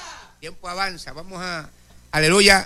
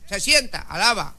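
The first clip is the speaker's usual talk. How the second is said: commanding teacher; 4 semitones higher, slower than usual. Retold or imitated. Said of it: "Tiene que tener una voz".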